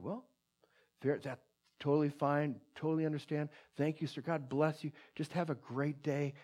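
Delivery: softly spoken, unruffled kindness; kindly. Retold or imitated. Evangelist answering an angry stranger, kindly and softly. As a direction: gently let him go with a blessing, imitating the friend. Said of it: "looked at him very kindly".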